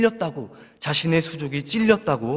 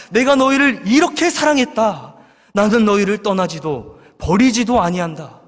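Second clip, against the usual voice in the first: proclaimed love; 4 semitones higher, 4 dB louder than usual. Acted. God's answer proclaimed.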